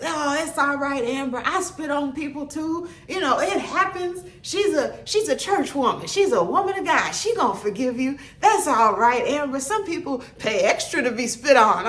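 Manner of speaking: instructor teasing. Retold or imitated. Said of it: "he just".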